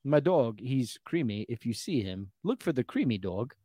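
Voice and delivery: mock Brooklyn accent. Owner asks people to look for lost dog, Brooklyn accent. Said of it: "Brooklyn is what that was".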